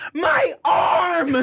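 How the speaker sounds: loud, high-pitched crying-child imitation; mock toddler wail. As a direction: cry out like an outraged toddler. Imitates flailing daughter's protest.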